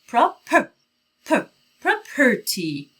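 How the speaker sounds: "پراپرتی" broken up slowly, the schwa stressed; slow syllable drill on property; schwa demo. Shown as a demonstration. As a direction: spell out "پراپرتی" piece by piece. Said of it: "یه صدای خیلی کوتاه به اسم شوا".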